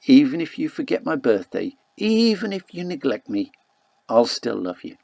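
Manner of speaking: tender promise. Acted. Expectant mother tells her unborn child she'll always love her, tenderly. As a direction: speak gently as if to the baby inside you. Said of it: "tell my unborn child".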